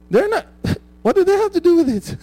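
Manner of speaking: laughing through the question; amused disbelief, laughing as he speaks. Real, not acted. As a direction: chuckle while asking it. Laughing at the example.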